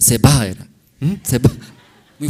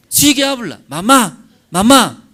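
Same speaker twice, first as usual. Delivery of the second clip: put-on much higher, louder sing-song to a baby; coaxing mother; 9 semitones higher, 7 dB louder than usual. Mother leaning over her baby, coaxing it to speak in a high sing-song. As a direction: coax the baby to say mamá.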